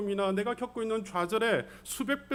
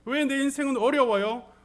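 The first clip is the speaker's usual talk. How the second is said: acted protest, higher and louder; crying out to God; 3 semitones higher, 5 dB louder than usual. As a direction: demand why, building in force to God. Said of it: "하나님 앞에 울부짖을 때가". (하나님께 울부짖듯 따지는 목소리)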